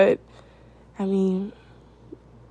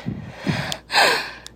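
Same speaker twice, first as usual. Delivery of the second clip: gasp. Acted. Reacting to partner's answer.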